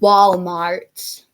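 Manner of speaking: mock American drawn-out pronunciation; American accent. British host imitating Americans, mock American accent. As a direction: put on a stretched American accent. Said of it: "I love American accents. It's like".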